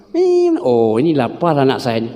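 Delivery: lightly voiced mother; mother reading baby's cry. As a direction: play a mother who knows the hungry cry. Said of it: "Ada nadanya tu".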